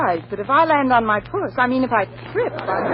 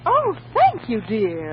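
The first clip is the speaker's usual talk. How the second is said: sarcastic thanks; slower than usual. Acted.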